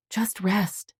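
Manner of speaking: unvoiced, gentle whisper. Granddaughter at the bedside, whispering him to rest. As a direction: breathe it so he can drift off. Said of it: "she whispered".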